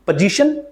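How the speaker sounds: "पोजीशन" as puh-ZI-shun; weak first vowel in "पोजीशन"; correct pronunciation demo. Shown as a demonstration. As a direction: model "पोजीशन" with schwa for the o. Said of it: "को आप pronounce करोगे".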